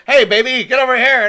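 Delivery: gangster Cagney. Retold or imitated. Describing Cagney's film role to a co-host, light gangster voice. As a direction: lightly play a brash gangster calling a girl over. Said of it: "still acting like a gangster".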